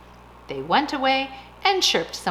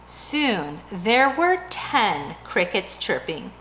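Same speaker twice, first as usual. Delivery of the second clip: ordinary delivery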